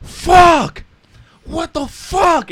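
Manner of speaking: high, stretched-out imitation yell; shouted outburst. Retelling a YouTuber's barbershop stunt, shouting. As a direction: yell it way up high, dragging the swear.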